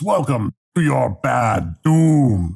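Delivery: slow, gloating cartoon villain. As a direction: drag out the evil welcome. Villain greeting in a put-on voice.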